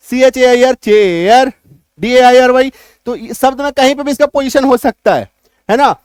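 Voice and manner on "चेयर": चेयर with a long ए gliding into यर; demonstrated pronunciation. Shown as a demonstration. Teacher giving an example of the AIR sound, demonstrated pronunciation. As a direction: stretch चेयर out clearly. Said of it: "जैसे कि एयर का अपना".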